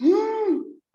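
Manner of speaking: sharp high gasp; mock shocked gasp. Trainer miming hands leaving frame, sharp high gasp.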